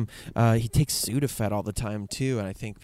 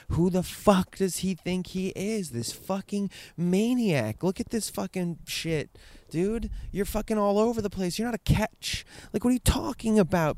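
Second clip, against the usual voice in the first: mock exasperated rant; 7 semitones higher than usual. Imagined rant at dad.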